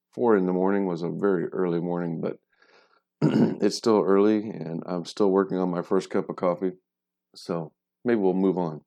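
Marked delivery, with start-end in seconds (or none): 3.6-8.8 recorded in a different room; odd room sound, different mic spot; from another room. Real, not acted. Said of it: "If I do sound a little bit weird".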